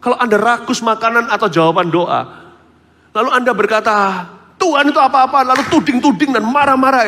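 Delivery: loud, high preaching voice; fiery preaching. Real, not acted. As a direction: preach it out with full force. Preaching at full force. (khotbah berapi-api dengan suara keras)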